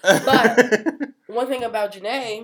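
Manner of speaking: slow, laughing through the words. Real, not acted. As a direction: laugh while you start the point. Laughing after joke.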